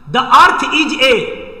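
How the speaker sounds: very slow drawn read. Shown as a demonstration. Teacher reads the blank sentence slowly.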